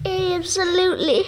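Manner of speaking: punchy comedian delivery. Pretend.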